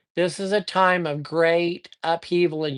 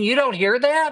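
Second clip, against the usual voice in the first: higher-pitched incredulous retold question; mock disbelief; 6 semitones higher than usual. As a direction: imitate a friend who can't believe it. Acted disbelief of friend in story.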